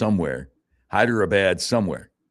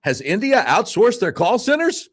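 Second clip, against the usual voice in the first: amused reading; 14 semitones higher, 4 dB louder than usual. Real, not acted. Reading funny comment, laughing.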